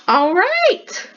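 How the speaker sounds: a loud, high, laughing cheer; excited cheer. Real, not acted. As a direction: cheer out loud at the finished piece. Finishing her first sketchbook piece.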